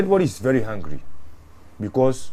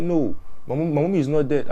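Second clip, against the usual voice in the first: lightly voiced child, pitched higher; higher-pitched retold protest; child's protest; 6 semitones higher than usual. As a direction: retell a little girl's denial, higher. Retelling a child's denial.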